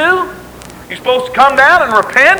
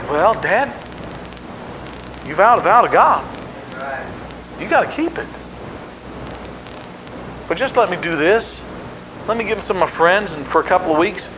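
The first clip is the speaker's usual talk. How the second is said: soft, lower, unruffled daughter; calm acceptance; 5 semitones lower, 8 dB quieter than usual. Acted. Daughter accepting her dad's vow, calm and quiet. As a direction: answer gently, without freaking out. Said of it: "she didn't freak out".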